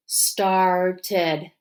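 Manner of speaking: "Started" drawn out as star, ted; tapped syllables. Shown as a demonstration. Teacher tapping together with pupils, "Started" said syllable by syllable. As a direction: split "Started" into two separate beats. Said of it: "Let's tap together".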